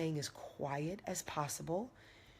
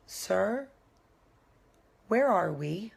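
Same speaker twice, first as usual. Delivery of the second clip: raised voice; 4 semitones higher, 6 dB louder, slower than usual. Retold or imitated. Confronting the driver, lost.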